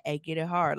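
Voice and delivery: quiet, low, bossy mutter; low mumbled demand. Retold or imitated. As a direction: mumble it like a lazy order. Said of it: "don't tell me, like".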